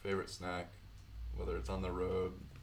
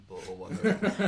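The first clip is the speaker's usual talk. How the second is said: put-on kid voice; 11 semitones higher, 8 dB louder than usual. Imitating cartoon kid.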